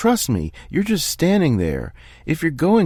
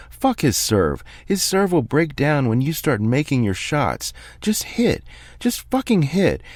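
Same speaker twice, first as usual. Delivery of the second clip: a calm man finally coming apart, yelling at his player; screaming coach; 8 semitones higher than usual. Acted. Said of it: "then starts screaming".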